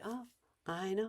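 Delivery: soft, unruffled sympathy; loving calm. Shown as a demonstration. Parent answering a pleading kid, lovingly calm. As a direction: acknowledge gently without engaging. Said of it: "you just lovingly say".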